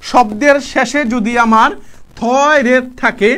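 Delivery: each word of the rule drawn out slowly; slow repeat. Shown as a demonstration. Teacher repeats the rule slowly for students. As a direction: spell the rule out slowly so it sticks. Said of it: "কি বলছি?".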